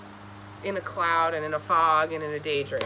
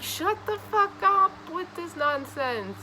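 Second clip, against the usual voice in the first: mock annoyed; 10 semitones higher, slower than usual. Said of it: "you're like".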